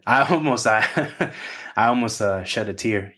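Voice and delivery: a real teary laugh breaking through the words; choked-up laugh. Real, not acted. Talking to the group after an emotional message, real teary laugh. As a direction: laugh it off while fighting back tears. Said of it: "You can actually hear it in my voice".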